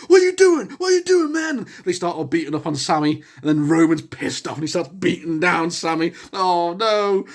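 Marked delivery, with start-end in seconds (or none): 0.1-1.7 much higher, louder, indignant what; shocked Usos. Retold or imitated. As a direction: play the stunned brothers. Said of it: "the Usos were like".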